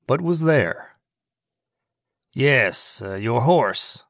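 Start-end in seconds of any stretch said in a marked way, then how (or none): 2.3-4.0 feigned remembering. Acted. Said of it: "as if he were only just now remembering".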